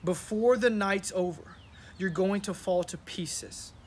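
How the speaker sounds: slow, weighty reading of "you're going to fall to pieces"; slow scripture reading. Shown as a demonstration. Pastor reading the verse slowly to his congregation, solemn. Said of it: "Then Jesus told them".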